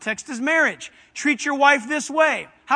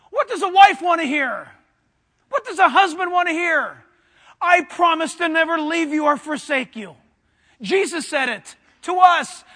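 impassioned preaching, raised voice; fervent, insistent pulpit yell; yelling preacher; 3 semitones higher, 4 dB louder than usual. Real, not acted. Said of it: "I'm sorry I'm yelling".

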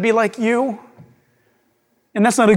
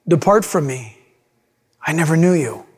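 lower, grave sentence; solemn Jesus; 5 semitones lower than usual. Acted. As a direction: pronounce judgment gravely. Jesus pronouncing judgment.

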